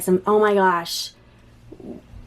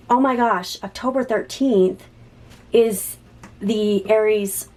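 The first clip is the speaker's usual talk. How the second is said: overwhelmed by a sudden realization; real astonished delight; shocked excitement; 2 semitones higher, slower than usual. Real, not acted. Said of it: "I'm shocked right now".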